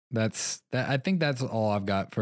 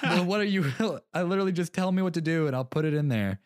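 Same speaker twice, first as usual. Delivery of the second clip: exasperated; 6 semitones higher than usual. Retold or imitated. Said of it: "And I'm like".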